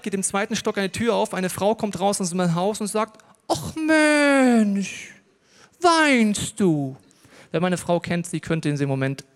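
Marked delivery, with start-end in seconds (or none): 3.5-7.0 hoch und laut, übertrieben mitleidig; mitleidige Nachbarin. Retold or imitated. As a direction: spiel die mitleidige Nachbarin. Nachbarin tröstet das Kind. (Nachbarin tröstet das schreiende Kind, hoch und übertrieben mitleidig)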